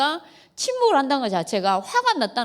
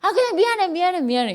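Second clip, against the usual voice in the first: higher, brushed-off sorry to end the fight; dismissive sorry; 7 semitones higher than usual. Retold or imitated. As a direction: say sorry just to make it stop. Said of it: "그럼 이제 뭐가 미안한데".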